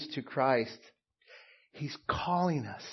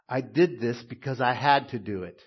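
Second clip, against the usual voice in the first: dutiful, obligated; 2 semitones lower, 5 dB louder than usual. Shown as a demonstration. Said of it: "One answer says".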